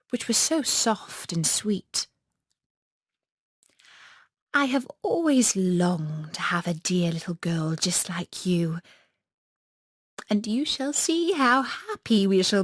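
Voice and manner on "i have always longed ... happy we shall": put-on hushed, coaxing old witch voice; a kindly witch murmuring to the child. Old witch speaks to Gerda.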